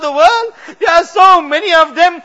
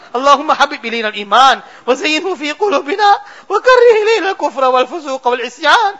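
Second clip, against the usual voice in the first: rapid Arabic dua recitation; much faster than usual. Real, not acted. Imam rushing through the Arabic dua for the congregation. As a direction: rattle off the Arabic prayer at speed.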